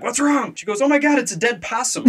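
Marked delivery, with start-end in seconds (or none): 0.0-0.5 high-pitched mock worry; imitated alarm. Storyteller mimicking the husband reacting to a scream, high-pitched. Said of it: "her husband's like". 0.8-2.0 high-pitched imitated freak-out; mock panic. Storyteller mimicking the pregnant lady finding a possum, high mock panic. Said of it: "I hear this pregnant lady scream".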